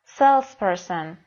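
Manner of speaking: Salesperson slowly, with SALES clearly stressed; stress on first syllable. Shown as a demonstration. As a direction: lean on SALES in Salesperson and keep person light. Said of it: "روی بخش اول کلمه است". (Salesperson آهسته با تکیه روی بخش اول SALES)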